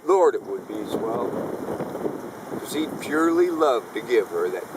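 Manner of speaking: rhythmic storytelling verse with swinging pitch; cowboy poetry recital. Acted. Poet telling of a renegade trapper at rendezvous, rhythmic yarn. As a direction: recite it like a mountain man's campfire yarn.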